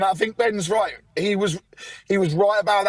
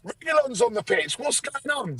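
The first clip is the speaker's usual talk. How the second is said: mock confusion; 5 semitones higher, 4 dB quieter than usual. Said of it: "I was like".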